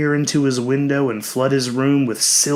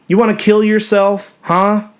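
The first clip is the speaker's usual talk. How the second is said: higher and louder, upset and scolding; upset shout; 8 semitones higher, 6 dB louder than usual. Acted. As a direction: yell it at him, angry and scared. Sister upset after his fall.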